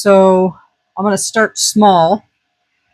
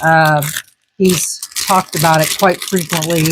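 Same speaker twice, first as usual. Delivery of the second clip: crunching while talking; talking through a crunchy bite; mouth full. Real, not acted. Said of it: "Sorry about the crunching".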